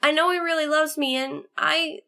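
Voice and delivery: high voice losing its force, breaking off; faltering. A narrator's reading. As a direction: start insistent, then falter and tail away. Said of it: "Snowbolt's voice faltered".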